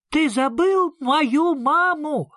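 put-on high, slow, loud child's cry; shout. A narrator's reading. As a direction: yell it as an accusation. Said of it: "крикнул Сниф".

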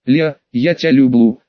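put-on slow, slurred drunk confession; tongue tied with drink, slow; slurred drunk speech. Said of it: "с заплетающимся языком".

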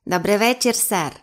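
creaky creature voice; рипучий голос. A narrator's reading. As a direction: greet politely in a small creaky voice. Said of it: "промовив рипучим голосом". (рипучий голос саламандри)

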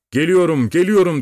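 high, loud call building on the repeat. A narrator's reading. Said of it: "diye seslendi ata". (rüzgara karşı yüksek sesle seslenerek)

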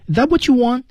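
"Is that what you want" pitched high, lifting at WANT; high questioning rise up to WANT; rising tone. Shown as a demonstration. Teacher shows learners the tune of "want", rising. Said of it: "升调".

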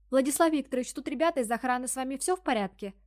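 high squeaky secretary voice. Acted. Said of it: "писклявый голос блондинистой гадюки".

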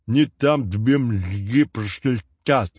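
«Не там тебе мозги прошлетят» slurred, lisped, slow; lisping. A narrator's reading. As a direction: mumble it with a whistle between the teeth. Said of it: "добавил он опять". (шепеляво, медленно, со свистком во рту)

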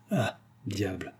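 slow whispered aside; pensée à part soi. A narrator's reading. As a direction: mutter it to yourself, barely voiced. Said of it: "pensa Jean". (aparté chuchoté, lentement)

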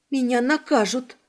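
plain reading voice

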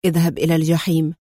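low, quick, composed retort; unruffled defiance; calm. A narrator's reading. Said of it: "أجابه أدهم في هدوء".

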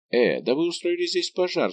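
crying out. A narrator's reading. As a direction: exclaim as if just finding the fire. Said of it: "вскричал он". (удивлённый возглас повыше)

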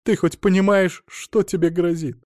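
high, anxious motherly lament, lightly acted; mild lament. A narrator's reading. Mother asks her son about the threat, lightly lamenting. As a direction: wail it gently, pitched well up. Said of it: "запричитала она".

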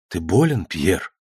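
low and soft, fading; father softly worried over his son; tender question. Acted. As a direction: gently ask the sick child. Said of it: "нежно спросил он".

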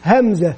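همزة said slowly and clearly, falling at the end each time; slow letter drill. Shown as a demonstration. Teacher modelling the letter name for children to repeat, slow falling. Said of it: "أن يردد خلفه".

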